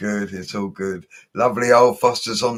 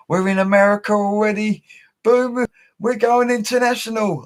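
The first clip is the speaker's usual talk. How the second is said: excited; 12 semitones higher than usual. Real, not acted. Shoutouts reach the USA.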